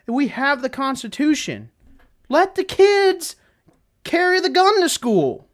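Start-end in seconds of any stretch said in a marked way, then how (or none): 2.3-5.5 mock provocative joke. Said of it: "Just kidding".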